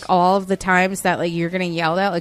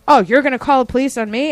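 higher, quick mock outrage; yelling customer; 4 semitones higher, 4 dB louder, faster than usual. Customer challenging the clerk's police threat, mock outraged. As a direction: imitate an indignant challenge. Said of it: "she started yelling at me".

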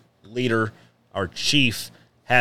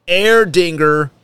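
mock German brand name; 6 semitones higher, 5 dB louder than usual. Hamming the sponsor beer name.

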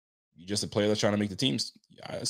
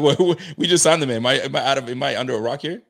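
mock surprise; 3 semitones higher, 5 dB louder than usual. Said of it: "I was like".

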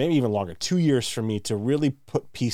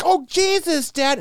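very high, louder groan; exasperated teen; 5 dB louder, slower than usual. Acted.

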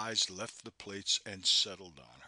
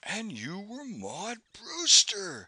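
slow, louder, solemn declaration; 11 semitones higher, 6 dB louder, slower than usual. A narrator's reading. Narrator gazing across at her, solemn. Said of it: "I said solemnly".

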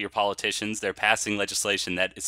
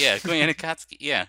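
put-on Chicago accent; 6 semitones higher, 5 dB louder than usual. Chicago riff continues.

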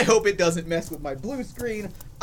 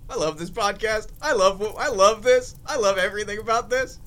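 laughing delight. Real, not acted. Vlogger laughing after the fan story, delighted. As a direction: gush while laughing.

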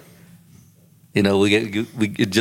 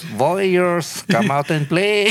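mock taunt; 9 semitones higher, much slower than usual. Mock movie gang taunt.

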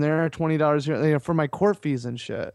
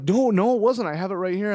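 panicked protest; 5 semitones higher than usual. Retold or imitated. Insisting to clerk in panic.

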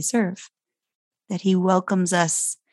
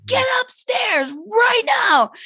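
much higher, slow, forceful command; furious order; slower than usual. Retold or imitated. Mom ordering daughter upstairs, slow furious high command. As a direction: blow up and send her upstairs. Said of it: "I blew up and I was like".

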